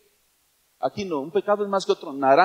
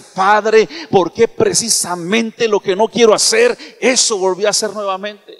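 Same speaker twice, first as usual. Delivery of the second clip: anguished prayer; 2 semitones higher, 5 dB louder than usual. Pretend. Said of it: "se ha hincado a llorar y dice".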